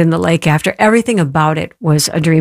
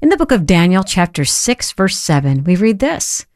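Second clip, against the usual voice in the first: scripture reading; 3 semitones higher than usual. Acted. Reads scripture on air.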